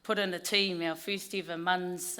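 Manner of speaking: hoarse, croaky voice after a weekend of cheering. Real, not acted. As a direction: speak through a croaky voice. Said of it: "excuse the, uh, croaky voice".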